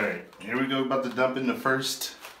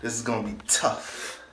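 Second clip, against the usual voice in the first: nervous whisper to self; breathy, bracing whisper; 4 semitones lower, 8 dB quieter than usual. Real, not acted. Bracing before getting in.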